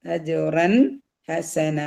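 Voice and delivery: അജുറൻ with crisp n before ഹസന; അജുറൻ ഹസന, n plain, last aa held; clear noon. Shown as a demonstration. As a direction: keep the n of അജുറൻ apart from the h. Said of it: "നൂനിന്റെ സൗണ്ടിനെ വെളിവാക്കുക".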